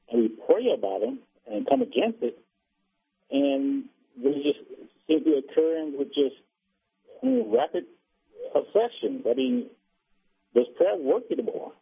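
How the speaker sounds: muffled voice, words smothered. Real, not acted. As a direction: speak through a muffling hand. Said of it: "you're rather muffled".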